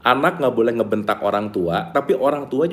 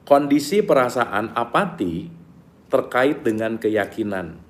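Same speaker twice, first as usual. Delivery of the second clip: slower, each word set down clearly; slow deliberate repeat; slower than usual. Shown as a demonstration. Teacher repeats the line slowly so students catch it. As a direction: read it again slowly for emphasis. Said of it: "saya ulang ya".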